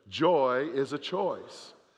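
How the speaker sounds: firm, emphatic, full of conviction. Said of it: "Now say it like you mean it".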